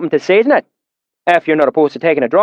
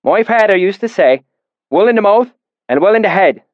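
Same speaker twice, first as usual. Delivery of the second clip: put-on deep valley accent; 9 semitones higher, 4 dB louder than usual. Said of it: "his accent so thick and oily".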